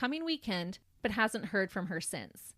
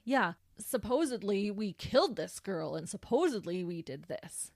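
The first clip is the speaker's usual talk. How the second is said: imitating a scoffing denial; sarcastic retold protest; mocking. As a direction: make fun of an outrageous claim. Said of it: "makes fun of the outrageous claims".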